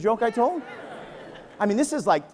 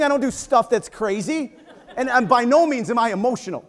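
laughing denial. Acted. Ironic denial while laughing.

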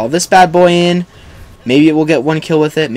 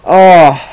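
loud, higher, drawn-out groan; frustrated groan; 4 semitones higher, 9 dB louder than usual. Real, not acted. Gamer after another bad death, frustrated groan. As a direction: groan loudly in exasperation.

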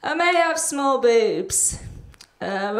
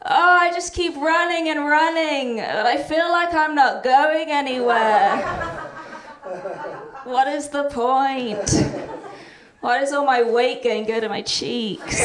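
lightly voiced weary hamster; a hint of a hamster moping to a therapist; existentialist hamster; 2 semitones higher than usual. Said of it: "my impression of an existentialist hamster".

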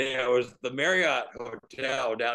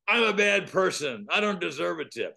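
mild angry retort; 4 semitones higher than usual. Retold or imitated. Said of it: "he yelled it worse than that".

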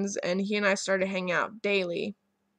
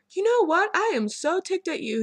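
much higher and louder, hammed-up fake anger; mock ticked off; 10 semitones higher, 3 dB louder than usual. Friend pretending to be mad I'm gay, mock anger. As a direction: scold like you're furious, but it's a joke. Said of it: "joking around about being ticked at me".

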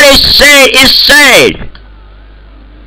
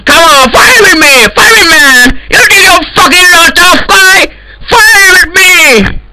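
angry yelling; 6 semitones higher than usual. Acted. Admin challenging cheating players.

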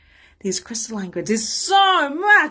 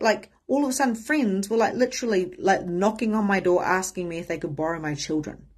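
ordinary delivery

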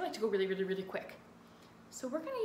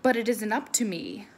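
loud, slow glum fish chant; gloomy fish; 8 dB louder than usual. Acted. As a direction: drag out the gloomy refrain, sinking on the last blub. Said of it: "Says the fish to his friend".

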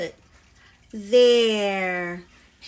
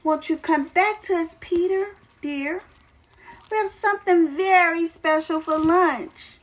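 calling out; 5 semitones higher, 4 dB louder than usual. Acted. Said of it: "came to the window and called".

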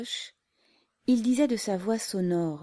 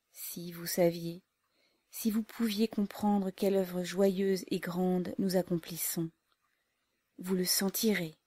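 heartfelt. Acted. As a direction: speak straight from the heart, hushed. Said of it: "d'une voix profonde, avec un accent venu du cœur".

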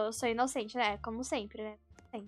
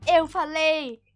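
gloating; 3 semitones higher, 7 dB louder, slower than usual. Real, not acted. Gloating after the win.

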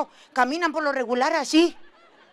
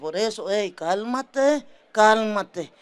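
mock calm husband; 5 semitones lower, slower than usual. Esposo calmado calma a esposa.

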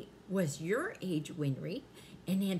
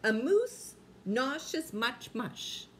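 careful slow tongue twister; 4 semitones higher, 3 dB louder, slower than usual. Shown as a demonstration. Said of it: "Say this three times real fast".

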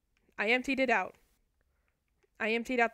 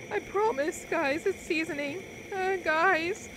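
a much higher, cracking voice, pleading; 6 semitones higher, 3 dB louder, slower than usual. Real, not acted. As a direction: let the voice crack up high while insisting. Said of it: "Why did my voice crack".

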